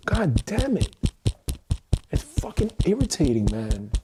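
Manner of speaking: high, exasperated groan of words; frustrated outburst. Real, not acted. Fed up with a rigid life, exasperated and high. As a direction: let the irritation push the pitch up.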